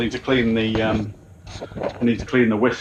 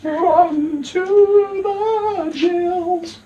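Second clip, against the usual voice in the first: much higher, comic squeaky voice; high silly voice; much slower than usual. Pretend. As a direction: squeak it out for a laugh.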